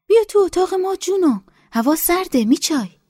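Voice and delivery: very high, coaxing call; high motherly older woman voice; coaxing village woman. A narrator's reading. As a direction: call her in kindly. Nesa invites Golbanu in.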